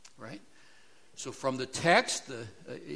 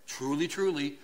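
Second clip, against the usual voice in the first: truly, truly given weight, falling; solemn emphasis. Shown as a demonstration. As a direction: lean on each truly. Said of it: "This is a biggie".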